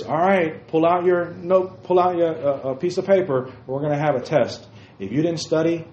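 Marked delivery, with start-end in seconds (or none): 0.0-4.7 teacher voice. Retold or imitated. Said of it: "the teacher says".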